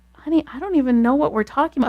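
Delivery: mildly exasperated bewilderment, re-enacted; baffled protest. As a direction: plead honest confusion to a spouse. Acted bewildered reply to husband.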